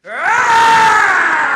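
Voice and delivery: huge full-throated battle yell at the top of the lungs; war cry. Real, not acted. Preacher leading the congregation in a war cry, full-throated yell. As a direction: scream it like charging the walls. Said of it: "let's give it a real war cry".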